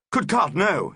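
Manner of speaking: a horrified denial to Annelida; crying out. Acted. Man cries out in horror. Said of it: "he cried out".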